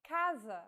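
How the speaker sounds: casa with a hard K sound, KAH-zah; Portuguese casa, hard C. Shown as a demonstration. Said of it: "the letter C sounds like this".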